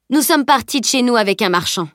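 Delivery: lightly voiced earnest boy; garçon qui explique. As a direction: explain it smoothly to a stranger. (garçon qui raconte avec assurance)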